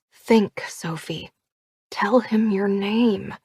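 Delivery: urgent hiss in her ear; sharp hushed prompt. Acted. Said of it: "Nora hissed in my ear".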